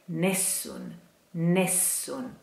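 "nessun" with a long, held E. Shown as a demonstration. Teacher showing singers the long E of "nessun". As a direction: stretch the E of "nessun". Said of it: "we have to pronounce a long E".

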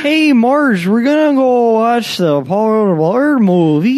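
high, loud Midwestern dad calling to his wife; Midwestern dad accent. Acted. Dad telling wife Marge about movie night, Midwestern accent. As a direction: announce the plan like a goofy dad. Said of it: "you do a great, uh, Midwestern accent".

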